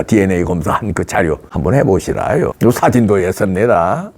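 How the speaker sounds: put-on low, sly North Korean accent rising on 해보시라요. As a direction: hand over proof in a North Korean accent. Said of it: "사투리가 잘 안 되네".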